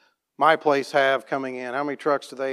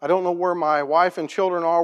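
tearful plea; 4 semitones higher than usual. Retold or imitated. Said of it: "bawling his eyes out".

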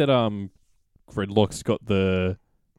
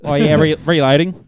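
bad Australian accent; 4 semitones higher, 8 dB louder than usual. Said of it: "an American doing a bad Australian accent".

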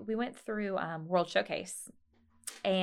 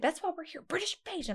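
imitating excited mom; 10 semitones higher than usual. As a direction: insist like an overexcited mom. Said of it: "She'd, like, scream".

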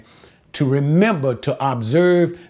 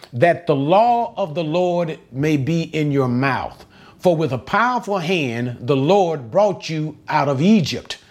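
slightly raised, measured Bible reading; scripture reading; 3 semitones higher than usual. Acted. Teacher reads the verse to students, measured scripture reading. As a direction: read the verse out to the class.

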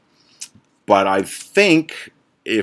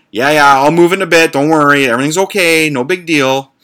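dismissive; 6 semitones higher, 6 dB louder than usual. Retold or imitated. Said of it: "So I was like".

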